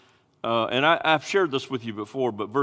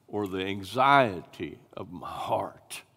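whispered; 6 semitones lower, 3 dB quieter, slower than usual. Acted. Preacher drawing the congregation close, whispering. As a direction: whisper it, low and slow. Intimate sermon passage.

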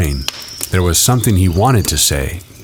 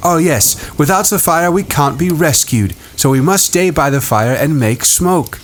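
put-on higher boy voice; Ralph voice; 9 semitones higher than usual. A narrator's reading. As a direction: voice young Ralph.

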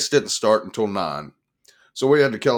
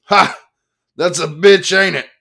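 very loud, much higher barking laugh and shout; 10 semitones higher, 12 dB louder than usual. A narrator's reading. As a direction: shout to nobody in particular. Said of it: "The H D boomer shouted".

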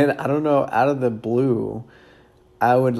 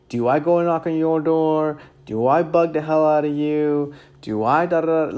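raised, higher-pitched mock tirade; retold angry rant; 5 semitones higher, 3 dB louder than usual. Angry homeowner scolding the door knocker, mock angry rant. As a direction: imitate an indignant homeowner firing off questions. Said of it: "angry. He's like, literally".

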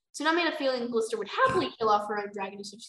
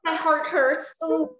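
high, loud gushing outburst; overwhelmed squeal; 13 semitones higher, 9 dB louder, much slower than usual. Real, not acted. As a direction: squeal as if your heart can't take it. Overwhelmed by cute baby dragon.

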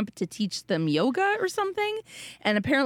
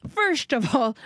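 Irish accent; 3 semitones higher than usual. Shown as a demonstration. Irish accent bit continues.

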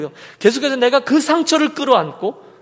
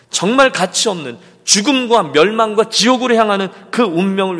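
emphatic sermon build with forceful peaks; impassioned preaching; 2 semitones higher, 6 dB louder than usual. Real, not acted. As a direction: preach it with rising conviction. Preacher builds on Christ's sacrifice.

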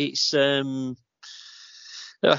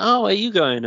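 quoting strangers; 9 semitones higher, 4 dB louder than usual. Retold or imitated. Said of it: "they were like".

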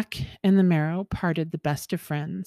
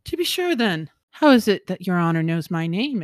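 a startled yelp that settles into a puzzled question; surprised exclamation; 5 dB louder than usual. Acted. Jack startled that the Marrow knows his name, surprised exclamation. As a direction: caught off guard, Jack blurts it out. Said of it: "exclaimed Jack".

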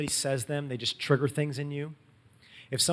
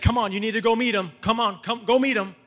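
higher, insistent retold coaxing; eager urging; 6 semitones higher, 4 dB louder than usual. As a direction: pester a friend to come along. Andrew urging Peter to come along.

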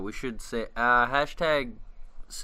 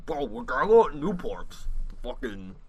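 hammed-up Boston bro; Boston accent; 2 semitones higher, 3 dB louder than usual. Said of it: "My Boston accent".

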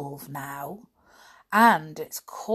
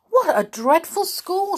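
shocked; 14 semitones higher, 7 dB louder than usual. Acted. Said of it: "said Peter".

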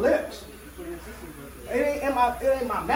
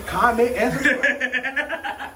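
laughing; 3 semitones higher, much slower than usual. Real, not acted. Laughing through outro plea.

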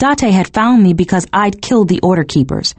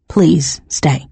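whispered, breath-only plea; quiet plea; 2 semitones lower than usual. A narrator's reading. Proud man asking her to stay, in a quiet plea. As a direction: whisper it as a hard-won request. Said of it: "what that quiet plea must".

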